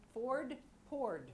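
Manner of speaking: "Ford, poured" with matching vowel and ending; rhyming pronunciation. Shown as a demonstration. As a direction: pair "Ford, poured" as a clear rhyme. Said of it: "It rhymes with Ford".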